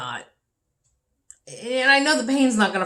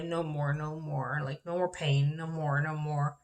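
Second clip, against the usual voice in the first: mumbling; 2 semitones lower, 6 dB quieter than usual. Retold or imitated. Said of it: "she was mumbling her sleep".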